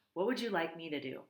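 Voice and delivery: level, even robot voice; steady, calm machine tone; corrected robot voice. Acted. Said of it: "that was probably the wrong voice for the robot".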